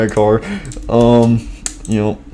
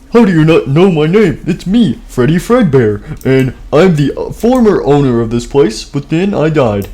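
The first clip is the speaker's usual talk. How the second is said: indignant; 4 semitones higher than usual. Acted. Fredbear outraged at stranger.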